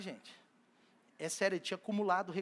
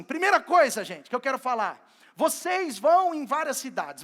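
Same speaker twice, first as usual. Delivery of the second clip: Jesus commanding; 3 semitones higher, 6 dB louder than usual. Acted. Jesus addressing disciples, acted.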